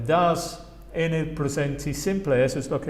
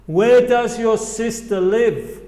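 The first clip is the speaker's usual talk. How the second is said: slow, louder "Where does your sister live"; slow teacher demo; slow model phrase; 6 semitones higher, 6 dB louder, slower than usual. Shown as a demonstration. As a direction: model it slowly for the class. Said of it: "repite después a mí".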